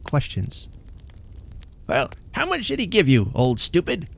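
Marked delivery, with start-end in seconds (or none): 1.9-4.1 high, harsh scolding yell of an invalid husband; screaming in anger. A narrator's reading. Bedridden husband berating his wife, screaming. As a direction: bark it at her like a bedridden tyrant. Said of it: "he screamed".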